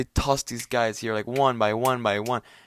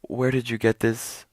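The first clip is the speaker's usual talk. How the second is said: higher and slower, baffled disbelief; incredulous questioning; 4 semitones higher than usual. Retold or imitated. To himself about the padded room, stunned and incredulous. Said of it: "I'm, like, thinking to myself".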